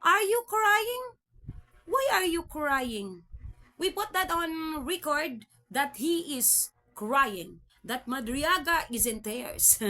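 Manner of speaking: hammed-up committee chair voice; mocking Madam Chair. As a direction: stretch each word out like a chair scolding a crying witness. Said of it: "Sabi nga ni Madam Chair".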